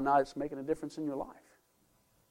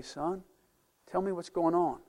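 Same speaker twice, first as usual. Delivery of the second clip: gentle father; 5 dB quieter than usual. Retold or imitated. Father voiced gently to his son.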